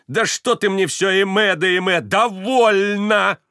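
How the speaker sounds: high, loud exasperated shout; exasperated outburst. A narrator's reading. Varvara snaps at Stepan's repeated confession, exasperated. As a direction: snap at him in exasperation.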